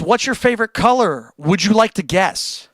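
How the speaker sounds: reading a chat question. Retold or imitated. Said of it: "Man City says".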